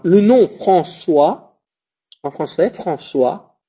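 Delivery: François with ç as s; François, ç comme un S; teacher demo. Shown as a demonstration. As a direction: model François for the class. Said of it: "je le prononce comme un S".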